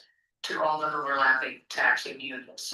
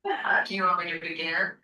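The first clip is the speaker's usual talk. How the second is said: phone speaker; 3 semitones higher than usual. Real, not acted. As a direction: voice over a speakerphone. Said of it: "you're on speaker".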